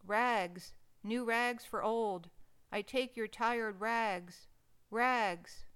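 loud, drawn-out ragman's cry down the street; street vendor's call. Acted. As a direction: call out your wares, slow and carrying. Ragman calling his trade.

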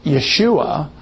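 Yeshua said with an initial Y sound; Hebrew pronunciation. Shown as a demonstration. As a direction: say Yeshua as ye-SHOO-ah. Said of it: "we would normally pronounce".

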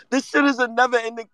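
breathy whispered aside with a chuckle; laughing whisper. Real, not acted. To the audience about the Dante signing, a whispered laughing aside. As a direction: drop to a whisper, amused.

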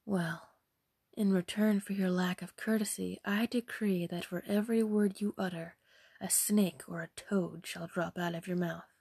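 composed, measured decree; unruffled fairy; calm, no anger. Acted. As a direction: pronounce the curse without anger. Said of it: "displaying no sign of anger".

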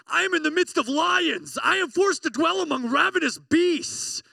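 high, loud cry of distress; anguished shout. Acted. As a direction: shout it out as if surrounded by lions. Dramatic reading of psalm distress.

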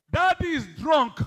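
gleeful call. Retold or imitated. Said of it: "He said".

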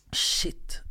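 voiceless whispered "Shit.". Retold or imitated. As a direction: breathe "Shit." out in shock. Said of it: "jag bara". (viskat "Shit.")

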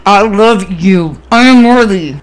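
forced out very slowly through clenched teeth; strained, reluctant self-affirmation; through gritted teeth. Retold or imitated. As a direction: grit your teeth and drag the words out. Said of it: "I literally was gritting my fucking teeth".

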